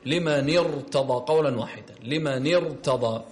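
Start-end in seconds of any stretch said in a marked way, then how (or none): 0.1-1.2 slow لمن ارتضى with a heavy, broad ra. Shown as a demonstration. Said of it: "الحكم هنا التفخيم". 2.0-3.2 لمن ارتضى drawn out with a thick, broad ra; heavy ra. Shown as a demonstration. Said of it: "الحكم هنا التفخيم".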